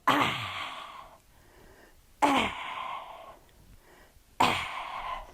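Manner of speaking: sudden "ah" like an eruption; mock eruption cry; volcano burst. Shown as a demonstration. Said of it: "Good job being a volcano".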